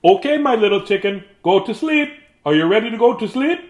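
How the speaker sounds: a lightly voiced gentle father; papa voice. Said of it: "said Papa".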